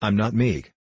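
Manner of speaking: lightly voiced squeaky objector; a hint of a squeaky little heckler; high squeaky voice. A narrator's reading. Man in velvet jacket objects to the speaker, lightly squeaky. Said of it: "in a high, squeaky voice".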